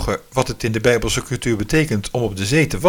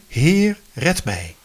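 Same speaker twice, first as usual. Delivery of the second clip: mild mock cry for help; 3 semitones higher, much slower than usual. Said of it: "En dan roep je".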